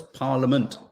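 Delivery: PARLIAMENT said PAR-luh-ment, silent I; correct parliament. Shown as a demonstration. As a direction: drop the I from Parliament. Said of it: "it's parliament".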